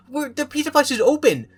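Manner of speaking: can't believe what the story just did; incredulous excitement. Real, not acted.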